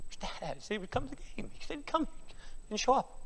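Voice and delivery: put-on soft, half-whispered child's hurt; let-down child. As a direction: murmur it like a disappointed kid. Voices let-down child waiting for dad.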